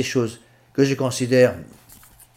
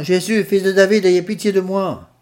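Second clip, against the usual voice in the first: higher, louder plea for mercy; crying out; 6 semitones higher, 4 dB louder than usual. Acted. Blind man begging Jesus by the roadside, loud plea. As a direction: call out to Jesus over the crowd. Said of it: "Et il cria, disant".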